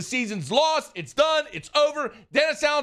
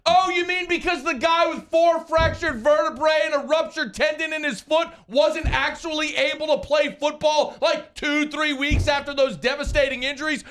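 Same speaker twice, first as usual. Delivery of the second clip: sarcastic. Real, not acted. Sarcastic rant at the coach.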